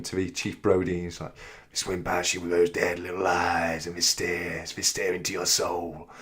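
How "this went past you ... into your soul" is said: low, soft, menacing movie sea-captain voice; lightly voiced grizzled shark hunter; awful Quint impression. Vlogger quoting Quint to Chief Brody, a hint of menace. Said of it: "that's my awful impression of Quinn".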